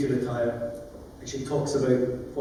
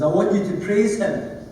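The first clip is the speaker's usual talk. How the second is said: booming repeat of the request to the judge; 7 semitones higher than usual. Retold or imitated. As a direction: boom it so the judge can't miss it. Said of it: "I said, I boomed".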